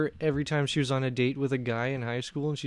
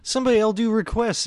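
impressions guy; 8 semitones higher, 4 dB louder than usual. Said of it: "the impressions guy that used to come to open mic".

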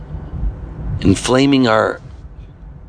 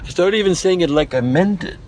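sarcastic; 5 semitones higher than usual. Retold or imitated. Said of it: "When you phrase it sarcastically that way".

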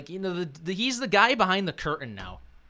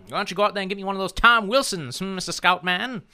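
smug tycoon, fast and louder; evil billionaire voice; 5 semitones higher, 5 dB louder than usual. Pretend. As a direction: demand it like a villainous billionaire. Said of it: "evil billionaire voice".

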